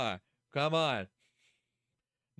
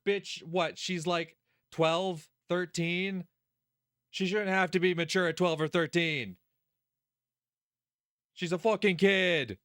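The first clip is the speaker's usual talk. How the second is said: indignant outburst; 4 semitones higher than usual. Real, not acted. Streamer defends a twelve-year-old character, indignant outburst. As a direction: protest hotly, hitting the last words hard.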